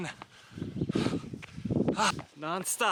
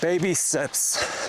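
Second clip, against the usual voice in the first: drawn out, stressed; slow emphasis; much slower than usual. Shown as a demonstration. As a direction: say it slowly, with weight. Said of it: "I can't stress it enough".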